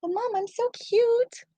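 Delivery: very high, slow cutesy dog voice; slow squeaky puppy plea; voicing the dog, drawn out. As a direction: stretch the plea out even sweeter. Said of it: "that's exactly what she's thinking".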